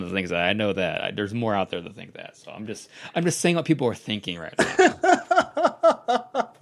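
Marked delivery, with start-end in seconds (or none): 3.1-6.5 slow words broken by laughter; laughing while talking. Real, not acted. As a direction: laugh through the line, embarrassed. Laughing through embarrassed remark.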